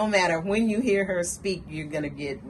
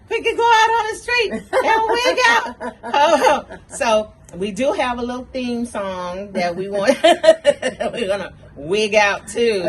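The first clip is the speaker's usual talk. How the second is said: high, loud words through laughter; can't stop laughing at the wig; 5 semitones higher, 8 dB louder than usual. Real, not acted.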